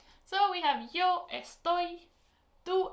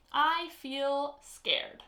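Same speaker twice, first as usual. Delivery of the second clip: slow prompt; 4 dB louder, much slower than usual. Shown as a demonstration. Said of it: "So how would you say".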